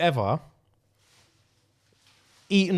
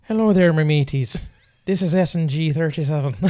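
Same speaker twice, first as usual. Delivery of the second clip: hammed-up Irish accent greeting; butchered Irish accent. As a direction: open the show in a badly faked Irish accent. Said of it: "I'm gonna do my thing in Irish today".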